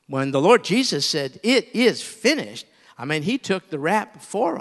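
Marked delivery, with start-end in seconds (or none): 1.4-2.6 slow, louder, solemn proclamation; solemn last words. Retold or imitated. Preacher giving Jesus' words on the cross, slow and solemn. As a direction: say it as Jesus declaring it done.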